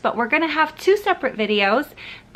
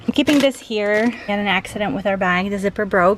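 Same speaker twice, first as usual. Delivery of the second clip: out of breath. Real, not acted. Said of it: "Sorry, I'm out of breath".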